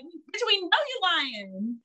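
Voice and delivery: sassy universe. Retold or imitated. Universe scoffing at a bargainer, slow and sassy. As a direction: drawl it like you caught a liar. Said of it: "They're like".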